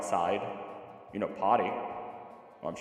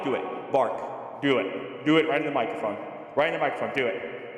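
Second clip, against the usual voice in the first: eager urging; 6 semitones higher, 5 dB louder, slower than usual. Real, not acted. Urging dog to bark.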